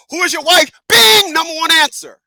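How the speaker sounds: high, loud hammed-up host shout; a booming mock game show host. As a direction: announce the winning answer like a TV host. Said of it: "game show".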